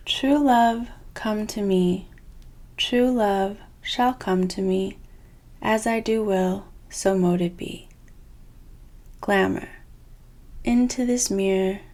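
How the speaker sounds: measured, declarative spell reading; spell incantation. Acted. Reader recites two spell cards to viewers, spell incantation. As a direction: recite it like an incantation, firm and deliberate.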